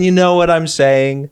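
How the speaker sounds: exaggerated emphasis. Mocking adulting phone talk.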